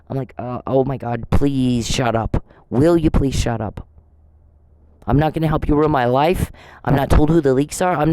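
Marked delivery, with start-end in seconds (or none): 0.4-3.9 low, slow, drawn-out plea; exasperated retort. Retold or imitated. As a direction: act out being fed up, stretching the please. Quotes own reaction to the whining.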